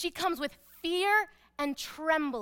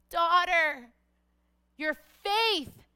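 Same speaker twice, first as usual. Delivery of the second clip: proclaiming; 3 semitones higher, 4 dB louder, much slower than usual. Acted. Jesus proclaims her healing publicly.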